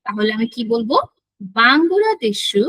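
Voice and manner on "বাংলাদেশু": slow, drawn-out Japanese-style বাংলাদেশু; teacher modelling বাংলাদেশু; Japanese pronunciation. Shown as a demonstration. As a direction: say বাংলাদেশু slowly with a final u. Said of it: "Japanese word demo".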